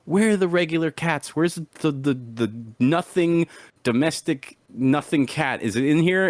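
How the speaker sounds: high, exasperated complaining; exasperated whine. Retold or imitated. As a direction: plead where are the cats. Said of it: "And I'm like".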